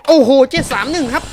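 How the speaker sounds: last attempt at the lock; exasperated. Real, not acted. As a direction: shout the last code out. Last code try.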